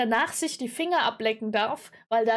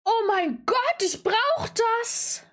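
excited longing; 8 semitones higher, much slower than usual. Real, not acted. Wants finger gadget.

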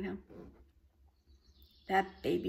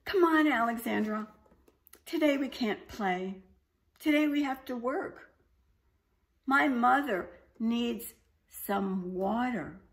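put-on louder, urgent young dragon; baby dragon voice; 5 semitones higher, 6 dB louder than usual. A narrator's reading. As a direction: hurry her along as the dragon. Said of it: "the baby dragon woke up Alexandra and said".

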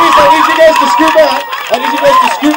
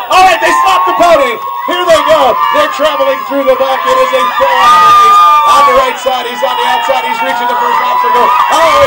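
race commentary; 4 dB louder than usual. Acted. Live race commentary at event.

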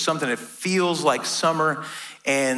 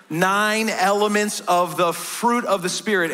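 "fruit" leaned on, slow and a bit higher; stress on fruit; 4 semitones higher than usual. Shown as a demonstration. Pastor stressing to the church that fruit is singular. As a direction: hit the word "fruit" as singular. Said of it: "I'm emphasizing the word fruit".

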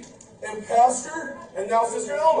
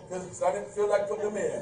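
put-on bratty toddler; 4 semitones lower, 7 dB quieter than usual. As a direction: lower and softer, a lazy child's shrug with a laugh. Childish answer in Lego sketch.

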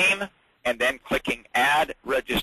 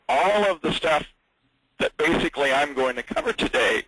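talking through the hiccups; 3 semitones higher than usual. Real, not acted. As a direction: speak while hiccuping. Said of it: "excuse me, got the hiccups".

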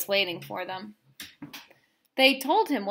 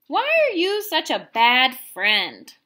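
angry scolding; 3 semitones higher, 7 dB louder than usual. Acted. Circle scolds rule-breaking friend.

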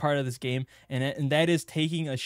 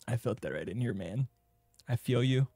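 mock sympathy; 4 semitones lower, 5 dB quieter than usual. Mock sympathy to crying guy.

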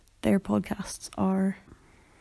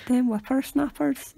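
slow, hammed-up Scottish Them whippersnappers; rough Scottish accent attempt; 4 semitones higher, slower than usual. Shown as a demonstration. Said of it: "That was my attempt at Scottish".

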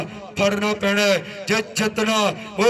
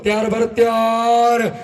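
frantic rural sports commentary; 4 dB louder than usual. Real, not acted. Live play-by-play.

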